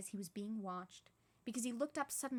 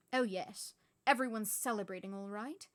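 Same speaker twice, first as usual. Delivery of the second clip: louder, impatient retort; 6 dB louder than usual. Acted. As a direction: brush it off, fed up. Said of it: "she said impatiently".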